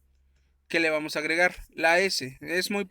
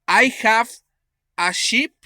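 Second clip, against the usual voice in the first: emphatic English demo; 8 semitones higher, 12 dB louder, slower than usual. Shown as a demonstration. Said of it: "si yo te digo".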